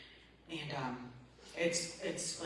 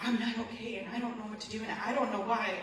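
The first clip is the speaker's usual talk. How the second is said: retold distress call; 5 semitones higher, 3 dB louder than usual. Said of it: "call them bawling".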